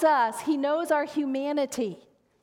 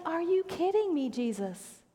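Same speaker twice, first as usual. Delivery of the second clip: incredulous; 5 semitones higher, 3 dB quieter than usual. Acted. Pastor talking back to Jesus, incredulous. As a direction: plead in disbelief, then let the name sink. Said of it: "Because it's like".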